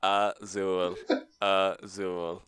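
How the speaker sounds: flat Azul said as uh-SOOL, repeated; robotic American. Pretend. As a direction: Azul said uh-SOOL, stiff and mechanical. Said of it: "say it as American and robotic as I could".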